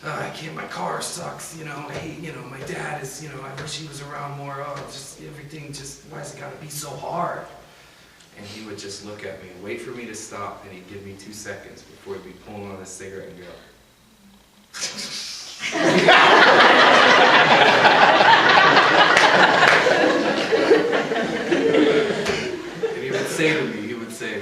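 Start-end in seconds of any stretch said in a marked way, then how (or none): 0.0-7.5 lightly voiced whiny teenager; mock the melodramatic teen you were; teen complaining. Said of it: "I would complain". 14.7-21.6 high, breathy burst of laughter; can't hold the laugh in; big helpless laugh. Real, not acted. Laughing at grandpa's answer.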